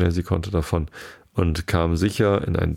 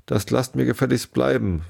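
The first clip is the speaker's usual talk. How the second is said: mild shout; 6 semitones higher than usual. Acted. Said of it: "schrie hinaus".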